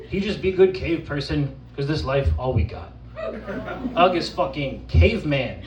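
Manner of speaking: lightly voiced simple caveman; caveman persona. Poet performing as Ugg for the audience, caveman persona. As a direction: recite it as an earnest caveman, lightly played. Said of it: "from the perspective of an actual caveman".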